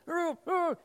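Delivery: high, muffled grunting cries, imitated. Buried man heard through the snow, muffled cries. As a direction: imitate someone calling from under snow. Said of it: "this kind of muffled".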